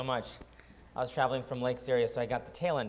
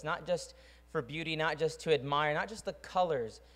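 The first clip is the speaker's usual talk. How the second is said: earnest spoken prayer, gently paced; closing prayer. Acted. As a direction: pray over the room with reverence. Pastor closes with prayer.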